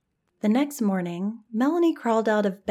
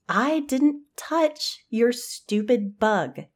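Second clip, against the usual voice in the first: angry; 5 semitones higher than usual. Acted. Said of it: "Hannah spun angrily toward Melanie".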